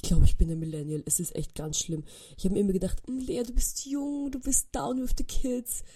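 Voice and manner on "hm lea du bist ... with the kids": smug self-talk. Retold or imitated. Inner voice flattering herself.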